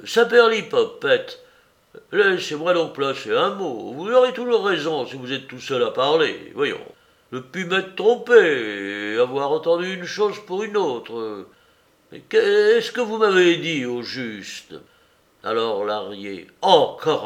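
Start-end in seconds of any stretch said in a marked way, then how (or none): 0.1-14.7 un peu plus aigu et fort, agacé; s'impatiente de ne pas placer un mot; irritation vive. Acted. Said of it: "d'un corne-diable retentissant". 16.6-17.2 « Encore » lancé fort; éclate d'agacement; exaspéré. Acted. Larrier exaspéré.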